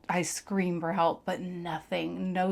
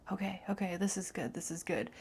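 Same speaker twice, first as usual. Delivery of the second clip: hushed, relieved okay; relieved whisper; 7 dB quieter than usual. Retold or imitated. Whispering to herself as her arms start moving. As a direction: whisper it as hope returns. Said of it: "and I'm like".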